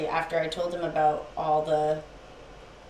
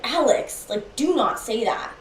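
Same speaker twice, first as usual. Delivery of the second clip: raised, firm reproach; retold scolding; 5 semitones higher than usual. Girlfriend scolding boyfriend for swearing, reproachful. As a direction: reproach him with a higher voice.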